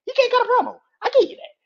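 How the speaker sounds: high, loud repeat; shouting the admission; shouted concession. Real, not acted. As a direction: yell it out for emphasis. Repeats concession much louder, higher.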